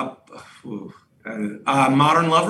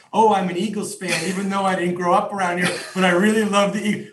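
higher, giddy imitation of a new fan; giddy mock fan; 5 semitones higher, faster than usual. Teasing a friend over a borrowed team, mock-giddy. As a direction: mimic a gushing adopted Eagles fan. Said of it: "how giddy you were".

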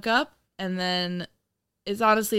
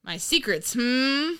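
suspicious; 6 semitones higher, 5 dB louder than usual. Pretend. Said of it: "And be like".

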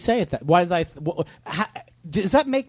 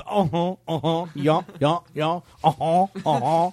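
uh-huh guy; 3 semitones lower than usual. Pretend. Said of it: "the guy's going".

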